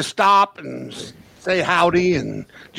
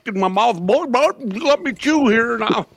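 mouth-full impression; 6 semitones higher than usual. Co-host clowning about someone still eating, mock mouth-full voice. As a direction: act like you can't talk for chewing.

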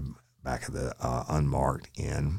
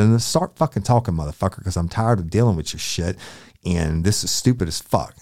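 higher, much louder furious rant; angry yell; 5 semitones higher, 7 dB louder than usual. Retold or imitated. Officer yelling at a stalling suspect, angry yell. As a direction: yell it at him, fed up.

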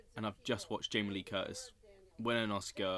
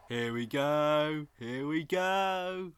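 nervous; 6 semitones higher, 5 dB louder, much slower than usual. Real, not acted. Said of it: "I always get nervous at this".

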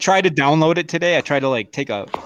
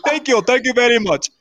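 mock polite gushing; 7 semitones higher, 3 dB louder than usual. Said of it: "I was like".

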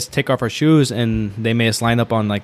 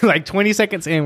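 higher pitched, words breaking into laughter; laughing; 8 semitones higher than usual. Real, not acted. Recruit recalling others freaking out so soon, laughing.

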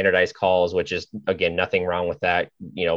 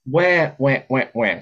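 greeting call wah; 4 semitones higher, slower than usual. Shown as a demonstration. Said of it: "a greeting call where it's that wah".

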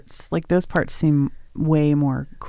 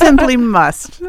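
slow, drawn-out and louder, with a laugh; pretentious; 6 semitones higher, 8 dB louder, much slower than usual. Pretend. Mocking travel snobs, a slow hammed-up pretentious drawl. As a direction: stretch each word like a grand snob. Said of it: "the most pretentious thing you could say".

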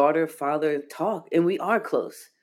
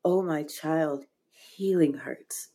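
slow, lightly voiced wise spirit; gently drawn-out words from a guiding voice; much slower than usual. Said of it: "This voice said".

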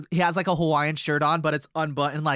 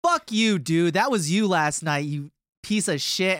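mock angry retort; 3 semitones higher, 3 dB louder than usual. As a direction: snap back at the guy blaming you, half-joking. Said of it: "we're like".

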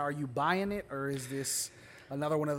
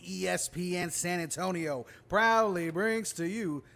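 booming big-top ringmaster announcement; 5 semitones higher, 6 dB louder than usual. Acted. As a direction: belt it out like a circus ringmaster. Ringmaster-style show opening.

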